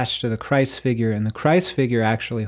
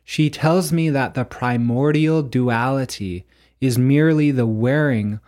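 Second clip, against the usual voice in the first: solemn recitation. Acted. Reading the final panel's verse to listeners, solemn recitation. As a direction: draw out each phrase like a proclamation.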